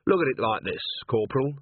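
measured, patient explaining; strained patience. A narrator's reading. Vimes reasons with the shaken corporal, forcedly patient. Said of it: "as patiently as he could".

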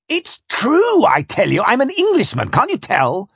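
high-pitched frantic insistence; desperate protest. Acted. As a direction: plead loudly to be believed.

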